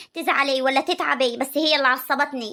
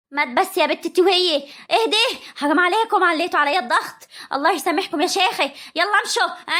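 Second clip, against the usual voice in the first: pleading raised voice; 2 semitones higher than usual. Acted. Aunt to fighting women, pleading and raised. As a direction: beg them to stop, voice lifted.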